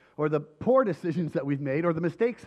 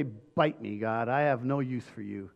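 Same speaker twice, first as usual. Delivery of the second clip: defiant sneer. Pretend. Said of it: "or people say".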